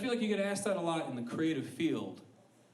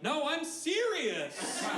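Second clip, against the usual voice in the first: high and slow, pleading insistence; mock serious; much slower than usual. Mocking the actor who breaks the fourth wall, high slow insistence. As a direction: stretch it out high and earnest. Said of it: "only to be like".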